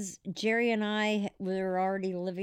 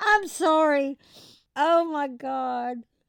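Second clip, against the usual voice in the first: laughing speech, high, "God" stretched out; 6 semitones higher, 7 dB louder than usual. Apologizing after telling a funny story to the others: laughing while talking. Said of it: "why are you laughing at that?".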